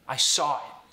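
I saw it said as "I saw-rit", R thrown in; Boston style intrusive R. Shown as a demonstration. Coach shows the Boston intrusive R. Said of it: "Boston accent too".

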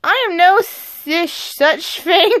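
slow, slurred tipsy denial; acted drunk. Drunk Adrian denies being drunk, slow tipsy slur. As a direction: play drunk, slurring and tripping on the words. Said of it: "I'm trying my best to talk drunk".

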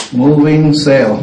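"Moving sale" said slowly and evenly, falling; slow, careful "Moving sale"; slow model phrase. Shown as a demonstration. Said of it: "nó biết là moving".

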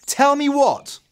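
high, loud demanding mum; mother's voice. Acted. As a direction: call out sharply as the mother. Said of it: "came the voice of their mother".

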